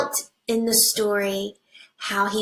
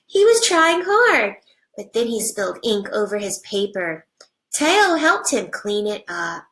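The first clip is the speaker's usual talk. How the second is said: put-on reading to children. Teacher reading a picture book to her class, animated storybook voice.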